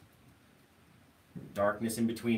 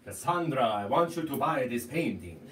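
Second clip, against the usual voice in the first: louder put-on Cassandra character voice; 6 dB louder than usual. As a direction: play Cassandra, pushing the sale. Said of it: "a bit like your Cassandra".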